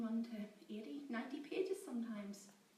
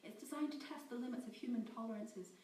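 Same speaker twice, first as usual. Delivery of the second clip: loud, high panicked torrent; words tumbling out in fear; 6 semitones higher, 10 dB louder than usual. Acted. Scientist Amy panicking as she defends her program. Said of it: "in a wave of panic".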